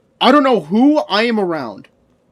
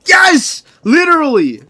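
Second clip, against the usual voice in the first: much higher, louder yes; emphatic yes; 9 semitones higher, 7 dB louder than usual. Real, not acted. Streamer answering chat's jab, much higher loud yes. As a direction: shout the answer.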